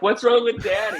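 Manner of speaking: put-on high child voice, half laughing; imitated kids. Kids overhearing Dad upstairs, imitated high little voice. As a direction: pipe up like a worried kid. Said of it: "They're like".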